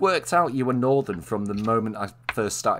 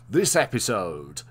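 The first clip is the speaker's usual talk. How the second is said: narrator voice; slower than usual. Retold or imitated. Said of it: "they'd have a narrator going".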